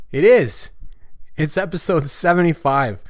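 a real little cheer; excited. Real, not acted. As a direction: pounce on it like you got it right. Realizes right episode number.

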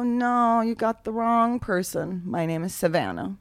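put-on southern accent, unhurried; lightly drawled Southern brush-off. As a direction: play a Georgia southerner denying it. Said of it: "I said it in a southern accent".

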